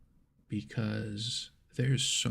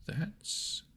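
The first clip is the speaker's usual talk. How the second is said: impressed; 2 semitones higher than usual. Retold or imitated. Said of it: "I was like".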